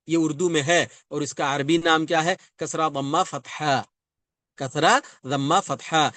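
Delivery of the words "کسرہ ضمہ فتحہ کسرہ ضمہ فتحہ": slow recitation. Shown as a demonstration. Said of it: "اس کو آپ یاد رکھیں گے".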